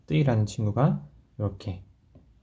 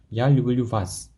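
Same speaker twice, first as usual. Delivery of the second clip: Я люблю вас said slowly, word by word; slow it down for the learners; slowed-down model; 2 semitones higher, much slower than usual. Shown as a demonstration. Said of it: "이렇게 해주면 돼요".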